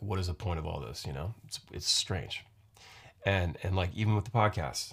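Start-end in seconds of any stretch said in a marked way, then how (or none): none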